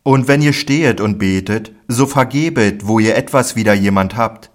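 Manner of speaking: Jesus preaching to his disciples with conviction. Acted. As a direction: proclaim it firmly to the disciples. Jesus teaching with force.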